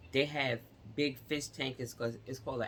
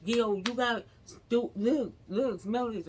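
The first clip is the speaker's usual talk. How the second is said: much higher and louder, urgent pleading; panicked rush to get a new shirt; frantic demands; 9 semitones higher, 4 dB louder than usual. Retold or imitated. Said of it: "I was like".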